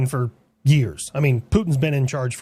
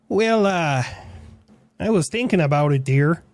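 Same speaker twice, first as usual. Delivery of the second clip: put-on Canadian accent. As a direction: play a mild, friendly Canadian. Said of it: "fucked up that part of the accent".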